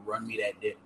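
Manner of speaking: whispering the line; breathy hushed whisper. Retold or imitated. Quoting what the girl said.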